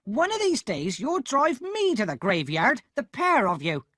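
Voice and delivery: angry shout. A narrator's reading. Sister scolding Pip for coming home late, shouting. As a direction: yell at the boy furiously. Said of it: "my sister exclaimed".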